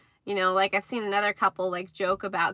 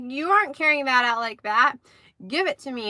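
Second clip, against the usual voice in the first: mild mock outburst, slightly raised pitch; retold angry husband; 4 semitones higher than usual. Husband to wife over her paper bag, mildly imitated anger. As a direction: play a husband flipping his lid, lightly. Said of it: "flipped a lid".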